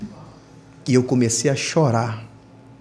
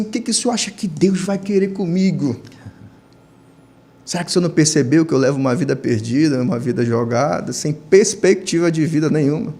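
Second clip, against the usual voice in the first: retold indignation; 3 semitones higher than usual. Young man challenging the preacher about God's interest, mildly indignant. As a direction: press him for an answer, a touch worked up. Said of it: "eu fiquei tão invocado com ele".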